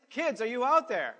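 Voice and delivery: loud call to the back; calling from far away. Real, not acted. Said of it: "let's try that again".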